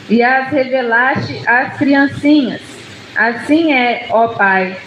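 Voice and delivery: slow, measured Bible reading; scripture reading. Real, not acted. Preacher reading Luke ten to the standing church, measured scripture reading. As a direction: read the verses out slowly and solemnly. Reads the Bible passage aloud.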